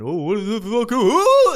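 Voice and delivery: jumps up high into a shrieking "Oh!"; mock startled yelp. Mocking slide-rushers, a high, loud startled yelp. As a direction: play a panicked guy rushing the slide. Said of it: "people rushing and going".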